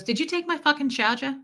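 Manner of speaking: put-on New York accent, dropped R's. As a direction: mimic a New York woman's demand. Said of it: "I live in New York".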